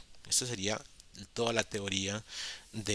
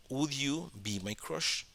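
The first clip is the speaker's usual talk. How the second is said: lenta y algo más aguda; Would you be my crush, despacio; pregunta modelo lenta; 4 semitones higher, 5 dB quieter, much slower than usual. Shown as a demonstration. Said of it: "Queda como". (profesora dicta la pregunta, lenta y aguda)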